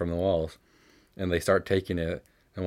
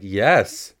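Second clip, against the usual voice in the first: louder, mildly indignant retort; mock indignant; 7 dB louder than usual. Robber answering the girl he is robbing, mock indignant. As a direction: act out a touch of indignation. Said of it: "very indignantly".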